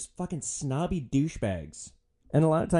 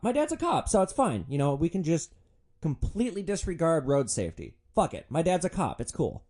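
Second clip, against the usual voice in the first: much higher mock bratty voice; mocking entitled kid; 6 semitones higher than usual. Mocking entitled college passengers, a hint of bratty whine. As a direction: sneer it like a spoiled college kid.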